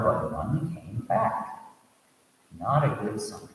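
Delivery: steady storytelling read, voicing the characters lightly; story narration. A narrator's reading. Teacher reading a Buddhist tale to students, storytelling voice. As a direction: read the tale aloud to the class.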